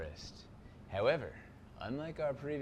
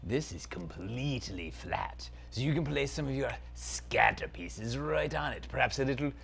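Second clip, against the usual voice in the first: dark lord; 3 semitones higher than usual. Acted. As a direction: savour every word like an evil prince. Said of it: "Zaltar, Prince of Phantasm".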